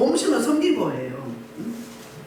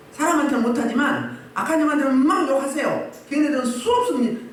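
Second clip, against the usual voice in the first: ordinary talk, nothing marked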